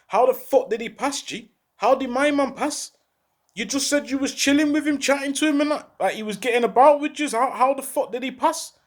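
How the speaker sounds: incredulous questioning, pitch rising as it goes; retold disbelief. Hearing from a friend that his man passed, in retold disbelief. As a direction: demand an explanation, reliving the shock.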